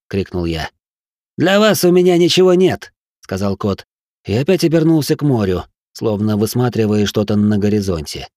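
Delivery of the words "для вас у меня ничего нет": higher sly refusal; cat voice, dismissive. A narrator's reading. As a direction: brush them off. Cat's recorded refusal.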